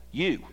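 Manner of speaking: single out "You" as the emphasized word; stress on You. Shown as a demonstration. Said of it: "This is what the emphasis is".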